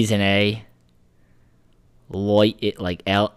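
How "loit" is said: Loit said with an oi sound, like loyt; Australian vowel in Loit, oi instead of ai. Shown as a demonstration. Explaining Aussie vowels to his co-host, saying Loit the Australian way. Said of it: "an I is an O".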